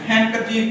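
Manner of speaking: हैंकरचीफ said "hankerchief", no D; silent D. Shown as a demonstration. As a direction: drop the D after the N in हैंकरचीफ. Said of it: "डी नहीं पढ़ना".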